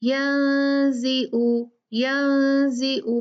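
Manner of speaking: यंजिउ drawled with no care for the ain; sloppy slow यंजिउ; careless ain. Shown as a demonstration. Teacher mimics careless students. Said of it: "परवाह ही नहीं".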